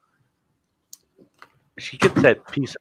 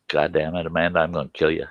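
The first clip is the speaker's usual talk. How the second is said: retold muttered threat; 6 dB quieter, faster than usual. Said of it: "and I'm like".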